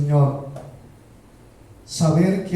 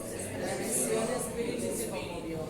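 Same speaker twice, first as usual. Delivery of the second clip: whispered fast and much softer; hushed whisper; 16 dB quieter, much faster than usual. Acted. Preacher hushes the church as Jesus is moved. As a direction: breathe it out like a secret. Dramatic hushed first reading.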